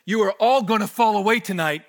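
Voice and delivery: loud, firm warning; forceful Jesus quote. Acted. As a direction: proclaim it as Jesus would. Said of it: "Jesus says".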